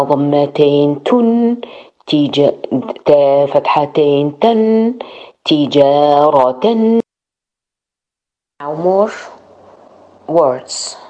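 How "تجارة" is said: تجارة with tanween, slow and clear; slow model word. Shown as a demonstration. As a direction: finish تجارة slowly with the nunation. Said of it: "full word after spelling".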